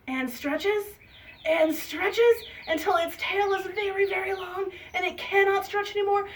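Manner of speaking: animated telling, climbing to a high peak; children's storytelling. A narrator's reading. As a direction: build suspense through the repetition. Storytelling to children, building repetition.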